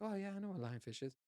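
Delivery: high, fast, smug know-it-all mimicry; mock the know-it-alls, quick and superior. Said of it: "They were like".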